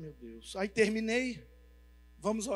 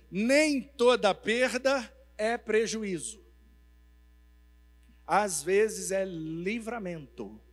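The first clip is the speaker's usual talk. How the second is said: slow solemn lesson; 5 dB louder, much slower than usual. Retold or imitated. Pastor teaches a first lesson.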